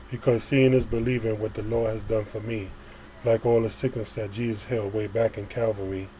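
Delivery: measured spoken-word reading, phrase by phrase; poem recitation. Acted. Poet reads a praise poem to listeners, reciting. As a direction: recite it in steady rhymed lines.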